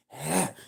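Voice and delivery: sharp, breathy exertion huff; effort grunt. Shown as a demonstration. Demonstrates gutting pigs with effort noise.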